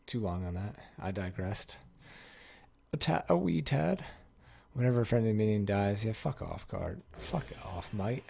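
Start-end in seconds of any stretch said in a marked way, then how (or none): 2.9-8.2 put-on half-sure, playful Scottish accent; Scottish-British accent. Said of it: "Just switching accents. Am I Scottish?".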